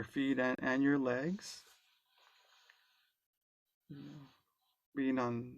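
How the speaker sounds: calm, unhurried guide with long pauses; guided meditation. Real, not acted. Guide leading an online group into body awareness, calm guided meditation. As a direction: ease them gently through it, leaving space between phrases.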